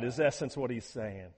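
usual speaking voice

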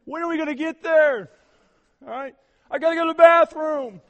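put-on loud, high whining child; whiny kid. Child whining to dad on long drive, loud. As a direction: beg like a restless kid in the back seat. Kids whining on road trip.

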